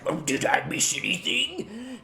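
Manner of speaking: high, put-on character voice; arriving god's voice. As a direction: ask it high-pitched, as a late-arriving god. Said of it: "And he's like".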